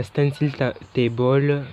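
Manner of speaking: self-mocking English accent on stencil table. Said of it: "mon accent anglais de ouf". (accent anglais exagéré pour plaisanter)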